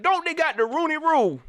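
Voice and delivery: high mocking voice of a naive viewer; mocking a questioner. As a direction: ask it like a know-it-all who misses the point. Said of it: "I had somebody hit me up".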